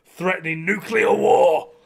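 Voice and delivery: shouted punchline of the rant; exasperated outburst; sudden shout. Real, not acted. Ranting about France.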